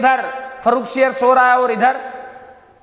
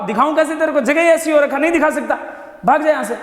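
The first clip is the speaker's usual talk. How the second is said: higher, irritated king shooing a visitor off; 4 semitones higher than usual. Retold or imitated. Emperor refusing to show his boil, irritated and higher. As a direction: snap him away, embarrassed and cross.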